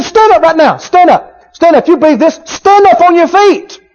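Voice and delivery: loud, urgent order to stand; loud command. Retold or imitated. Paul loudly ordering the crippled man to stand. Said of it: "said it with a loud voice".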